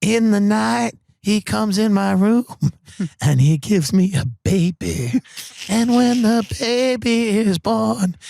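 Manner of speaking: high, slow, eerie whispery-toned prophecy; spooky pop singer. Acted. Pop star telling the talk show host about Satan, slow and eerie. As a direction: creep out the host with a dark slow voice.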